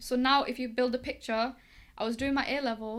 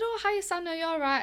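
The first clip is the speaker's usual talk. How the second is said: higher-pitched imitation of a caller saying hello; friendly phone greeting; 6 semitones higher than usual. Events organiser phones a former volunteer, friendly high-pitched greeting. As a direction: greet an old contact in a lifted voice.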